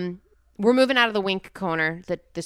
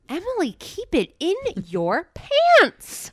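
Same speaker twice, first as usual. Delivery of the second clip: laughing; 12 semitones higher, 4 dB louder, much slower than usual. Real, not acted. Teasing co-host.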